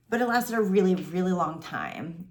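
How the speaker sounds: fighting tears. Real, not acted. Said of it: "I'm gonna try not to cry".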